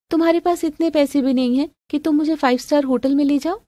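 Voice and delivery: lightly acted put-out girlfriend; demanding girlfriend. Girlfriend wanting a five-star hotel, complaining.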